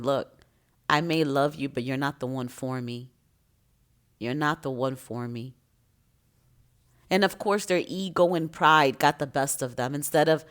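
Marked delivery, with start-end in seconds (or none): 0.0-5.5 low, soft, resigned firmness; retold quiet rejection. Speaker retells telling a loved person they aren't the one, quiet and low. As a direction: let them down quietly, voice dropped low.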